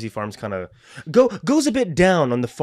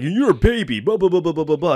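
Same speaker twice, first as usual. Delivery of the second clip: dad scolding; 3 semitones higher than usual. Retold or imitated. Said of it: "my dad will call me several names".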